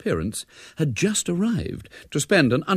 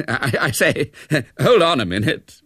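amused protest; 5 semitones higher, 5 dB louder than usual. A narrator's reading. Flustered Major cuts in, laughing.

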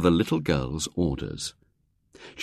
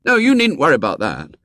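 boastful with a laugh; a boy showing off; laughing brag; 8 semitones higher, 5 dB louder than usual. A narrator's reading. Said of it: "William gave another short laugh".

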